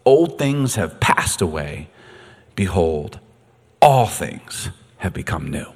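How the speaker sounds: whispered and slow, hushed; hushed scripture whisper. Shown as a demonstration. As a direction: breathe the verse out low and slow. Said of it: "God, I love that".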